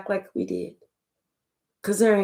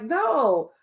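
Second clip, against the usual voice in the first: feigned innocence; 3 semitones higher, slower than usual. Retold or imitated. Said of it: "acting like".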